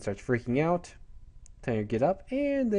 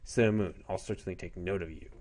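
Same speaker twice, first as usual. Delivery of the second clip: Tuxedo Mask; 5 semitones lower, 3 dB quieter than usual. Retold or imitated. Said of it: "He says".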